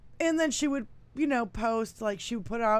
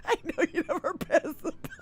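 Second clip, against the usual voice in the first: higher, fast, through laughter; laughing repeat; 10 semitones higher, 9 dB louder, faster than usual. Real, not acted. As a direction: giggle the line.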